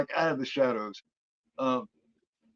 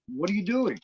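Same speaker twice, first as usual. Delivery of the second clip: put-on higher-pitched worried kid; concerned; 7 semitones higher than usual. Chained boy questions woman at the oven, mock concern. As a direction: imitate a boy asking with concern. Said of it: "the kid looks concerned as he asks".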